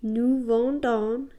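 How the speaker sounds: Nous vendons said slowly and clearly; teacher-paced nous vendons; careful French drill; slow model form. Shown as a demonstration. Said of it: "new form".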